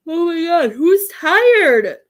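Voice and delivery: high, loud surprised outburst; surprised exclamation. Real, not acted. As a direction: exclaim at the sudden tiredness. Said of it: "You're making me yawn".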